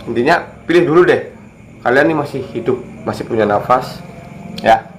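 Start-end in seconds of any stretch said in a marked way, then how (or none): 1.8-4.9 talking around a cigarette; words puffed out while smoking; cigarette in mouth. Real, not acted. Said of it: "Ini maaf saya sambil ngerokok ya". (bicara sambil merokok)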